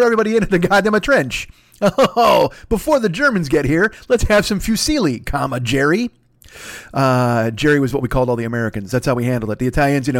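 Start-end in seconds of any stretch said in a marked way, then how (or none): 1.8-6.1 hammed-up Italian. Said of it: "I kiss on my fingers".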